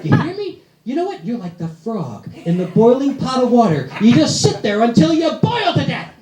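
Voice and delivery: a nagging tirade; mock yelling wife. Wife ranting at husband on the answering machine, mock angry. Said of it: "She actually yelled at me".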